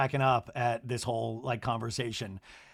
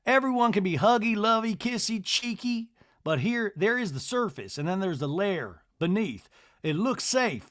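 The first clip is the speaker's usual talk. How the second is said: pitched-up imitation, listing with lilt; 5 semitones higher than usual. J T explaining the South, high put-on pontificating. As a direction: mimic his musing, high and deliberate. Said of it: "J T in a talking head goes".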